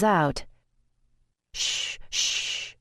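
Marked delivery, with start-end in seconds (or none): 1.5-2.7 soft, voiceless hushing; whispered, calming shush; soothing shush. A narrator's reading. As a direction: hush a patient gently. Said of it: "I tell him".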